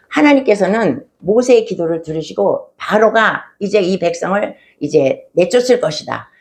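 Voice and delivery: ordinary delivery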